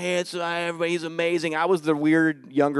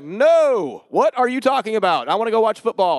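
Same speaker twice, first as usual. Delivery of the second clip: raised, louder indignant objection; indignant protest; 3 semitones higher, 4 dB louder than usual. Retold or imitated. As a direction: blurt out a mock protest. Imagined protest in church.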